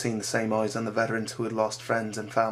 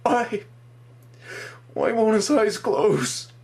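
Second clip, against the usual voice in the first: high, slow, louder plea breaking into sobs; sobbing plea; 11 semitones higher, 5 dB louder, much slower than usual. Acted. Boy sobbing at the soldier over his friend's open eyes. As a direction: beg for an answer through tears.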